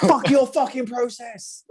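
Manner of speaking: slow, high-pitched mock rage; retold angry outburst. Him answering her advice to trust the process, angry. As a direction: re-enact losing your temper, drawing it out. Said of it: "So angry".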